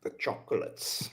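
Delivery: whispered. Real, not acted. Echoing a teasing remark.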